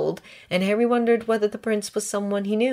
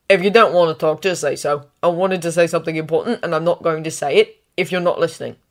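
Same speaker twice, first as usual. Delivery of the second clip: irritated; 6 dB louder than usual. Acted. Ron scolds Harry for ignoring him.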